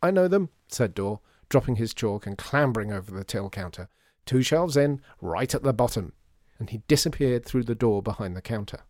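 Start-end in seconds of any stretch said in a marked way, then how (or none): 0.0-0.5 high, loud eager answer; eager reply. Acted. Assistant answering shopkeeper's order, loud and eager. 4.2-6.1 high, loud and keen; eager. Acted. Assistant fetching tins, loud and eager.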